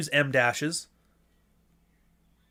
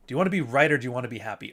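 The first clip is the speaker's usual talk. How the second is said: catchphrase again, quicker; faster than usual. Shown as a demonstration. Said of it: "I say that all the fucking time".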